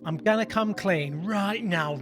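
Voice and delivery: slow broad northern English voice; northern accent. Pretend. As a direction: put on a northern voice, slowly. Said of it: "in a northern voice".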